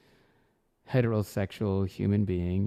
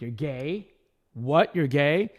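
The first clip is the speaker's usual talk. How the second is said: rising, louder and higher with each question; shocked disbelief; 6 semitones higher, 5 dB louder, slower than usual. Retold or imitated. Partygoers reacting to his label comment, shocked and rising. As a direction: partygoers can't believe what they just heard, shocked.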